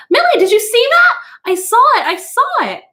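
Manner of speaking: high, loud and alarmed, calling to his wife; urgent, shaken outburst; excited cry. A narrator's reading. Husband calling to his wife about the wall, excited. Montag shocked by wall images.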